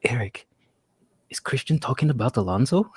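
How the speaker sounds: lightly imitated Filipino accent. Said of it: "He's from the Philippines, so I gotta do the accent".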